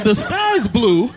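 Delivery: very slow, deliberate words; slow explaining to a kid. Retold or imitated. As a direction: spell it out slowly for a child. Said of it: "I go to his level".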